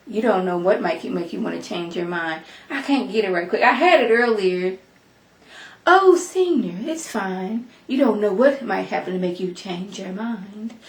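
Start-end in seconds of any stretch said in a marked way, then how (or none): 0.1-2.4 Stephanie voice. Shown as a demonstration. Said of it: "get my Stephanie voice on". 5.8-10.7 Stephanie voice. Shown as a demonstration. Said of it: "trying to get my Stephanie voice on".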